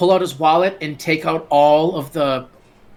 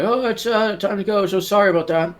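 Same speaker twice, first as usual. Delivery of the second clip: awkward excuse; 6 semitones higher than usual. Acted. Billy awkwardly hustles Tilly away.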